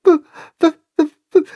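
high, shy stammering calf; stutter. A narrator's reading. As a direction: get stuck on the W, shyly. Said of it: "fragt das schüchterne Kälbchen".

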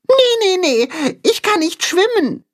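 mole refusing. A narrator's reading. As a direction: wave away the idea quickly. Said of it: "wehrt Max ab".

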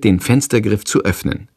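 ordinary delivery, nothing marked

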